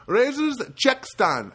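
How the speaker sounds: imitated Filipino accent, loud, high first word; loudly imitated Filipino-accented clerk. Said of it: "that's a good Filipino accent".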